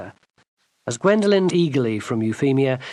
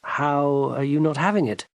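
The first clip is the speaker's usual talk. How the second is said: perplexed gentleman. Acted. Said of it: "seemed perplexed".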